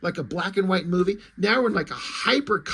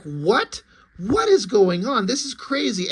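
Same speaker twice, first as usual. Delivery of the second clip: higher-pitched mock astonishment; incredulous, rising into amazement; baffled disbelief; 4 semitones higher than usual. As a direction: react as if totally thrown by it. Acting out a baffled reader's reaction.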